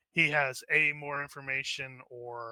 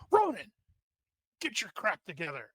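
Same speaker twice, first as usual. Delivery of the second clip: acted shout to pull a comrade into line; leadership shout; 5 semitones higher than usual. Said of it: "Lucas is going to shout and use leadership".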